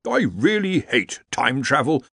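slow, sighing complaint; weary sigh. Acted. Dean grumbling about time travel, slow weary sigh. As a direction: let it out on a tired breath. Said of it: "sighed the Dean".

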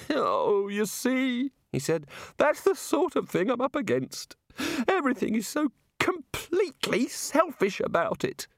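high, airy voice of a muddled god; a dreamy, absent-minded deity explaining creation; vague god voice. A narrator's reading. Narrator voices the god explaining evolution to wizards, high and airy.

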